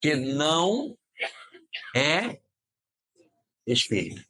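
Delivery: NÃO, then É, each held alone with long pauses; NÃO and É stretched and left hanging before "espírita"; emphatic word-by-word repeat. Real, not acted. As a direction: separate every word for the audience. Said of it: "Vocês ouviram o que eu disse?".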